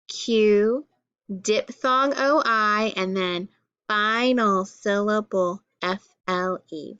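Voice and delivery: measured classroom recitation, each letter set apart; letter-card drill. Shown as a demonstration. Teacher reading letter cards with pupils, drilled recitation. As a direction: recite the card name, then spell it out.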